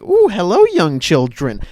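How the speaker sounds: high, sugary, creepy-sweet lady voice; creepy nice lady. Retold or imitated. Nice lady inviting the children inside, creepy-sweet voice. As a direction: lure the kids in sweetly. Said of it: "She's just like".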